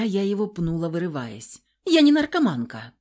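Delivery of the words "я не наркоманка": high, loud outraged denial; indignant cry. A narrator's reading. Heroine denying drug use, loud outraged cry. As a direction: hurl the denial at him. She denies being an addict.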